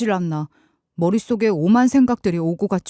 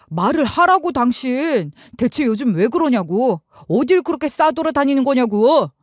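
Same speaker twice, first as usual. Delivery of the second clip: higher, pushing hard, frustrated; exasperated demand; 4 semitones higher than usual. Retold or imitated. Husband pressing silent wife, exasperated. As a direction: demand an answer out of sheer frustration. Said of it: "너무나 답답해서 말을 덧붙였어요".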